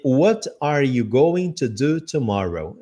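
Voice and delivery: What are you going to do tomorrow said slowly, every word separate; careful full form. Shown as a demonstration. Teacher showing the textbook version, slow word by word. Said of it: "Eu tô ouvindo palavra por palavra".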